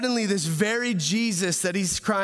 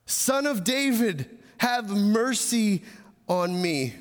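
crying out; 3 semitones higher, slower than usual. Acted. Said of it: "cry out louder and louder".

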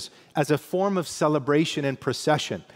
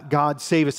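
a lifted, louder plea of the crowd; crying out; 4 dB louder than usual. Retold or imitated. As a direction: call it out a bit more strongly. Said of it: "And they're crying out".

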